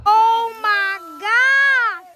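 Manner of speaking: slow, drawn-out oh my God; amazed exclamation. Real, not acted. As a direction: stretch it out in awe. Amazed by heavy sleet.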